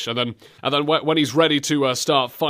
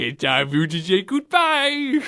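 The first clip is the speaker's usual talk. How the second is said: slurred villain cooing, pitched up; mock baby talk; 4 semitones higher than usual. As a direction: imitate a villain talking to a baby. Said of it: "sounds like he's talking to a little baby".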